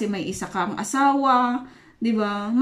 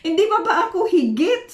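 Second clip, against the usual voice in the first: mock indignant; 6 semitones higher, faster than usual. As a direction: throw Elkanah's line back with mock outrage. Grabe naman.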